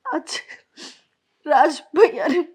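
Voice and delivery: tearful, breaking into a sob at the end; crying. Acted. Wife telling husband what brother said, crying. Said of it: "क्यों रो रही हो तुम?".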